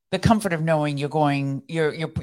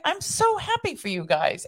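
imitating sweet friend; 12 semitones higher than usual. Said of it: "And she's like".

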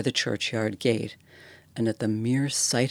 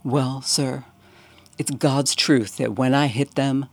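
Cockney bellhop, rising horror, louder on the fingers; lightly voiced Cockney servant confessing a horror, louder; fearful Cockney bellhop; 2 semitones higher, 4 dB louder than usual. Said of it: "He hesitated".

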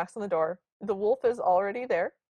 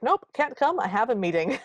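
high wolf voice; 4 semitones higher, 3 dB louder than usual. Retold or imitated. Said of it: "the wolf's like".

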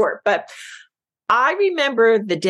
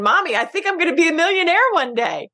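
emotional; 10 semitones higher than usual. Real, not acted. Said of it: "you can tell I'm getting emotional".

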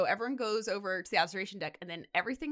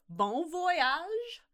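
mock farewell; 9 semitones higher than usual. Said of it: "mock farewell".

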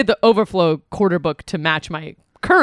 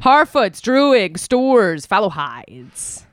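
dramatically spaced-out word list; exaggerated enunciation; much slower than usual. Trivia host mock-repeats options when asked to say them normally, overdone. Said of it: "can you pronounce them normally".

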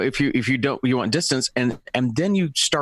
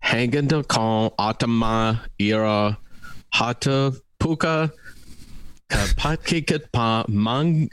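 put-on slow, halting Asian accent; slower than usual. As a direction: sound out the names in an Asian accent. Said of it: "Did I really do that with an Asian accent?".

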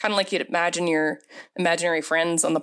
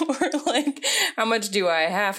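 high, put-on grudging whine; reluctant minimum-effort voice; 3 semitones higher than usual. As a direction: sound like you want to do the least. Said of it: "that attitude of".

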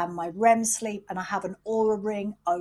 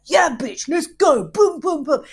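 high, loud hype shout; mock gym-bro hype, yelling; hyped-up pump-up; 7 semitones higher, 8 dB louder than usual. Mocking a loud self pump-up before the day, hyped yell. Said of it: "massively pumping myself up like".

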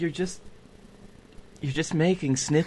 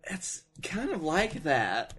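quiet, near-whispered reply; hushed; 9 dB quieter than usual. Real, not acted. Co-host wary of the homemade mead, hushed. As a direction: say it under your breath.

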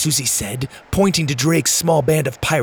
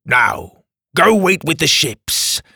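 villain voice; 4 semitones higher, 3 dB louder, slower than usual. Acted. Villain Drake voice.

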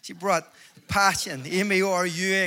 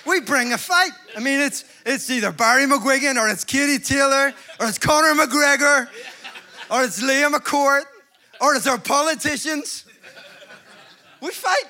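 loud, high preaching cry; fired-up preacher shouting; rallying shout; 6 semitones higher, 5 dB louder than usual. Acted. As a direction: rouse the crowd, full voice.

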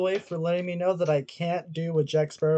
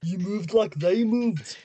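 Schwarzenegger impression; 4 semitones higher, much slower than usual. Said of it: "Arnold Schwarzenegger?".

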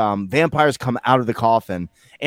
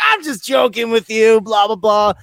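joking vampire clerk; 9 semitones higher, 4 dB louder than usual. Retold or imitated. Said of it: "Then at the very end, he's like".

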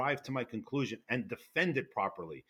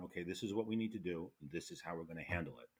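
quietly steady, a touch softer; calm; 5 semitones lower, 9 dB quieter than usual. Retold or imitated. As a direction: lightly imitate a calm team leader. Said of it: "with the calmness of going".

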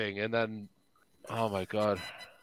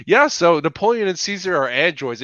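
casual; 7 semitones higher, 7 dB louder than usual. Retold or imitated. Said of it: "he's just saying it really casually".

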